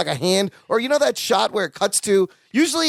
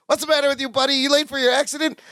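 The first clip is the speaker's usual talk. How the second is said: higher-pitched mock road-rage retort; mock indignation; 7 semitones higher, faster than usual. A driver cut off in traffic, mock indignant.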